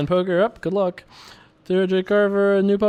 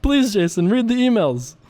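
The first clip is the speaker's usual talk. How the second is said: fretting viewers; 9 semitones higher than usual. Retold or imitated. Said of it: "You're all like".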